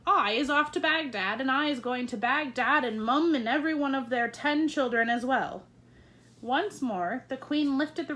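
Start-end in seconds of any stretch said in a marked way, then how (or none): 0.1-5.7 mock shout. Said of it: "waving his arms and shouting at me".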